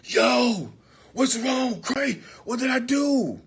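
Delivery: innocent confused friend. Retold or imitated. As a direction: play dumb and innocent. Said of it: "snapped right out of it like".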